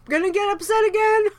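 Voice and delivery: high, loud, fast, crying and laughing at once; breaking into tearful laughter, overwhelmed with thanks; laughing through tears. Real, not acted. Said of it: "Crying".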